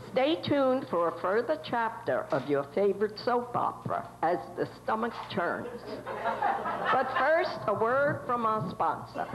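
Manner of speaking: am radio. Acted. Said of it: "nineteen twenties radio station studio".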